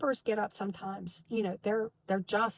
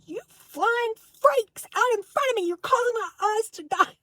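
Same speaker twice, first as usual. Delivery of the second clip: higher, louder furious yell; reliving a mad outburst, much higher and louder; retold scream; 11 semitones higher, 7 dB louder than usual. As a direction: scream it at the hovering angels. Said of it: "one of the things I screamed is".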